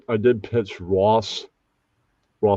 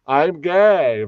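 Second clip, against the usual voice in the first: lightly pitched-up stereotype voice; put-on gay voice; 5 semitones higher than usual. Showing any actor can do it, light put-on gay voice. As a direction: lift it a little into a caricature. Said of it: "anybody can play a gay voice".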